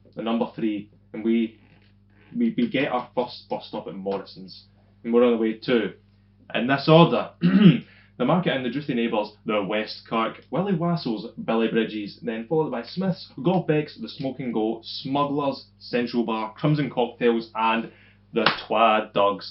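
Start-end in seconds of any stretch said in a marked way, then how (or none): none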